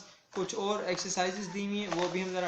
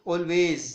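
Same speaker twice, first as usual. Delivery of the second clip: always with a loud, weighted "al"; stress on first syllable; 7 dB louder than usual. Shown as a demonstration. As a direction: punch the opening of always. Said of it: "ये जोर दे रहे हैं आपको all पर".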